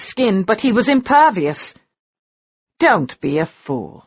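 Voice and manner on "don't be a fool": lazy drawl. A narrator's reading. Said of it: "in his lazy, elegant drawl".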